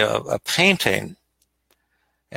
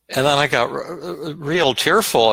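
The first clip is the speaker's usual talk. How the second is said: choking up mid-word, slowing down; halting, tearful catch in the voice; voice breaking; 4 semitones higher than usual. Real, not acted. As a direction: let the voice catch on the tears. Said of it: "I got choked up".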